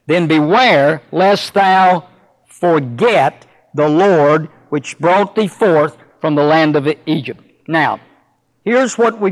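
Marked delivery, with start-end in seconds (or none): 0.1-7.4 slow, measured reading of the King James text; unhurried pulpit scripture reading. Acted. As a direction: read the verses with solemn weight. Reads scripture aloud.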